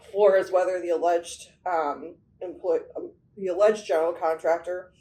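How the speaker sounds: speaking with a numb, burning tongue; words slurred by a frozen tongue. Real, not acted. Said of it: "my tongue is frozen right now".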